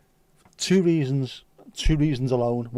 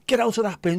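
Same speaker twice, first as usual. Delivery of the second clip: high-pitched imitated mum's yell; mock scolding shout, slightly louder; retold shout; 9 semitones higher, 4 dB louder than usual. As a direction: call it out like a mother catching her child. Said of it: "she shouted".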